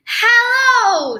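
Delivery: bright high greeting, falling at the end; little penguin says hello up high; cheery high hello. Acted. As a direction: call hello up high and friendly. Pip greets gull.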